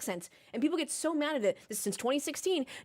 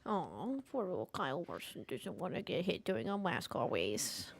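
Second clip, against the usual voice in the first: mock pity; 8 semitones lower, 10 dB quieter than usual. Mock pity for Kyle Larson.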